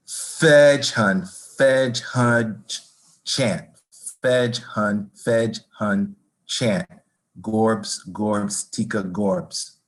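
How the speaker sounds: slow chanted nonsense syllables; sound poetry. Acted. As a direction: perform it as a rhythmic sound poem, dwelling on each syllable. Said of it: "this is a sound poem".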